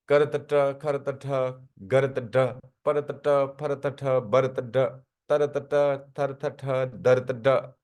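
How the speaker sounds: करतट to दरतट recited letter by letter in rhythm, each ending on its ट-type sound; spelling-out recitation. Shown as a demonstration. Teacher recalls how the class read the combinations, in a rhythmic recitation. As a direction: recite करतट, खरतट, गरतट through दरतट as an even drill. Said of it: "ऐसे पढ़े थे".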